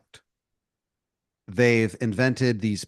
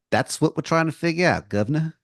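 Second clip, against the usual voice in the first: bad English accent; 5 semitones higher than usual. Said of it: "This guy has an interesting accent".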